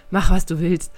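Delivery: lightly voiced yell; mild shout. A narrator's reading. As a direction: call it out as the narrator's shout. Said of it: "schrie ich".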